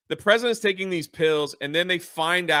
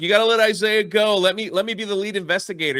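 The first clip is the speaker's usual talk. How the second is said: urgent pleading; 6 semitones higher, 4 dB louder, faster than usual. Retold or imitated. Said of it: "And he's like".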